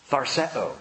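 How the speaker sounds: Tharseo said as THAR-seh-oh; Tharseo, stress on THAR, falling; Greek word. Shown as a demonstration. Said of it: "It's just one word in the Greek".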